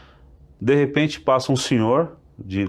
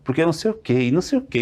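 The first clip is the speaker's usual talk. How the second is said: provoking; 5 semitones higher than usual. Retold or imitated. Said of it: "querendo, né, provocando".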